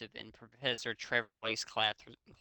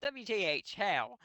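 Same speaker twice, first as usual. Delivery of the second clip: screamed; 7 semitones higher than usual. A narrator's reading. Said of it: "I screamed".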